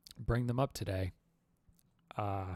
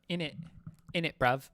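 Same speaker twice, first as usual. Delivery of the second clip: attempted British accent; 5 semitones higher, 3 dB louder than usual. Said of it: "I should have said "in it".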